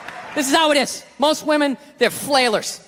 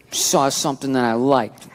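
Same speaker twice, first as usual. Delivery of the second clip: put-on little girl voice; 12 semitones lower, slower than usual. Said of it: "She went with the little girl".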